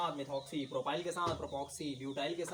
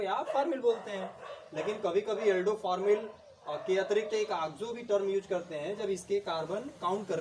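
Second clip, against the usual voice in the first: raised pitch, louder, quick explanation; excited, loud teaching; 4 semitones higher, 5 dB louder than usual. Real, not acted. Teacher excitedly explaining oxo to students, loud and quick. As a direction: push the point home to the class.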